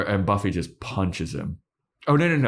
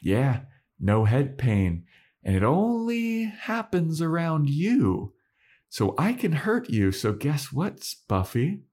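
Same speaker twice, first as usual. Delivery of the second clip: higher, gloating taunt; taunting Spike; 9 semitones higher than usual. Retold or imitated. Spike gloating at Buffy that he can hurt her, higher taunt. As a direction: lord it over her with a sneer. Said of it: "And Spike's like".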